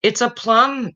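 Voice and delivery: put-on high, eager little girl answer. Girl blurting answer to teacher, high and eager. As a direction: squeak it out like a keen pupil. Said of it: "said a girl".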